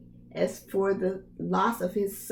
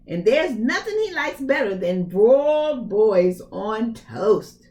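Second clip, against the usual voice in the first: mild menacing giantess; 5 dB louder than usual. Acted. Ogre's wife threatens.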